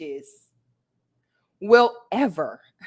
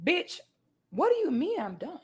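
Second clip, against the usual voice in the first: amused disbelief; 7 semitones higher, 5 dB quieter than usual. Real, not acted.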